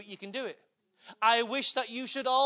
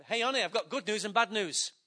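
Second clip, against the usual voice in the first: mock husband to wife. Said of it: "He's gonna".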